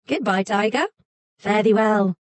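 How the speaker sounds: cheery, mocking fox voice; cheeky fox. A narrator's reading. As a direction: wave off the tiger. Fox taunts tiger.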